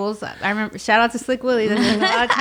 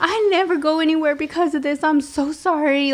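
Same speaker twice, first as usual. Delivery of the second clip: retold crying; 5 semitones higher than usual. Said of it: "I start crying".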